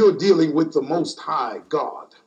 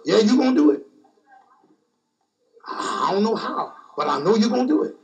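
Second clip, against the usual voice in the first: trusting faith; faster than usual. Retold or imitated. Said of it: "I know how to approach him".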